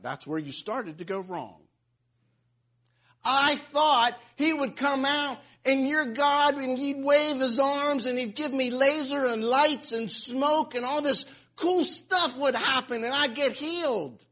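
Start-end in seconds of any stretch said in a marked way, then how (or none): 3.2-14.2 mock his grand expectations; mock Naaman. Preacher mocking Naaman's expectations, sarcastic. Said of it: "That's what he said".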